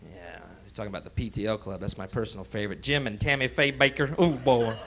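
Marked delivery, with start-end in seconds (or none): none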